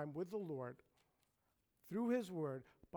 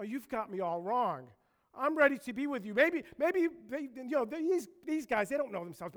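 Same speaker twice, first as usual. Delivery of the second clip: high, loud, self-assured protest; rushing insistence settling into a firm vow; emphatic Peter; 4 semitones higher, 6 dB louder than usual. Acted. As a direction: insist hotly on your own loyalty. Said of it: "He is emphatic".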